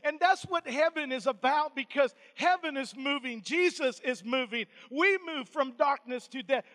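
loud, rhythmic preacher cadence; punchy pulpit declaration; emphatic preaching. Real, not acted. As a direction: drive each phrase home to the congregation. Preaches at full force.

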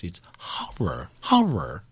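low slow horror-host drawl; Vincent Price voice. Retold or imitated. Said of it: "I hear it in a Vincent Price voice".

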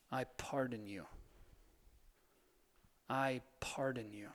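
whispering forgiveness to someone who hurt you; whispered pardon. Acted. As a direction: breathe the words out like a blessing. Quiet ritual of pardoning.

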